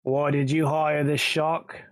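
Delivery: lightly voiced British gangster questioning. Intruder questions man hiding in cellar, British gangster accent. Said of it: "sounding like a British gangster".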